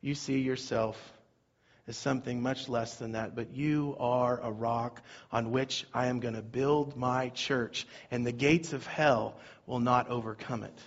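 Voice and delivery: Jesus quietly blessing Peter; voicing Jesus. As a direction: speak as Jesus would, low and gentle. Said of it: "And Jesus says".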